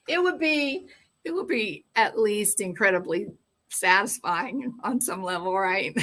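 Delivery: laughing through the words; real amused laughter in the voice. Real, not acted. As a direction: giggle while you say it. Laughing at own joke.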